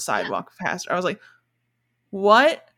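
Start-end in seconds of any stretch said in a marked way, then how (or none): 2.1-2.7 louder, rising disbelieving what; a bewildered double take; baffled what. Retold or imitated. Surprised at horse in town.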